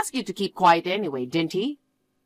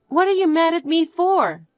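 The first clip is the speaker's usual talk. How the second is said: higher, startled and defensive; defensive surprise; 10 semitones higher than usual. Acted. Confronted by her fiancé, higher startled protest. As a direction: push back, caught off guard.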